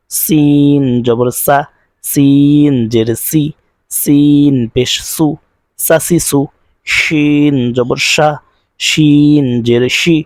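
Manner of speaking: slow, rising call of each syllable; recitation drill. Shown as a demonstration. Teacher reciting letters to students, slow chant.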